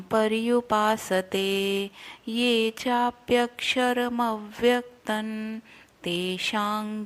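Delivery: slow, chanted Sanskrit verse; shloka recitation. Shown as a demonstration. Teacher chanting the verse for students to follow. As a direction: intone each word slowly and evenly. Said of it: "पहले मैं पूरा श्लोक पढ़ती हूँ".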